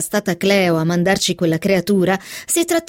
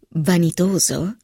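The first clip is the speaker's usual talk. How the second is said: incredulous echo; 3 semitones lower, slower than usual. Acted. Philip puzzled by Helen's word, slow rising echo. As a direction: echo Vanitoso as a puzzled question.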